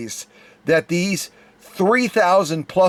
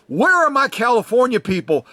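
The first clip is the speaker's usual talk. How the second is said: higher-pitched rallying call; 5 semitones higher than usual. Retold or imitated. Host challenging his California viewers at the premiere, calling out. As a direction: call the crowd out, pitch lifted. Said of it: "I called the California people out".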